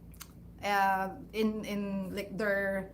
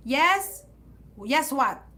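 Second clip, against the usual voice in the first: prompting mom; 3 semitones higher, 5 dB louder, much slower than usual. Retold or imitated.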